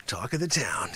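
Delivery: hushed secret whisper; whispered promise of fame. Acted. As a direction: breathe it like a secret. Sensei teasing a dream of fame.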